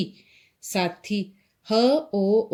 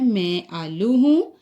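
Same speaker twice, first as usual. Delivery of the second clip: put-on 1 reading aloud to children. Shown as a demonstration. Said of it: "हम फिर से पढ़ते हैं".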